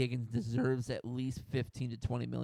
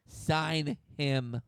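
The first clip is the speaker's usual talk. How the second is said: emphatic sign him; 4 dB louder than usual. Shown as a demonstration.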